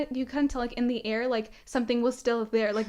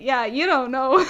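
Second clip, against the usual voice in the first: smug laugh; 7 dB louder, slower than usual. Retold or imitated. Smug inner thought, laughing.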